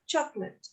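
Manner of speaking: "chocolate" run together as CHOC-lit, softly; two-syllable chocolate. Shown as a demonstration. Teacher modelling for students to repeat, "chocolate" in two joined syllables, choc-lit. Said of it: "we only have two syllables".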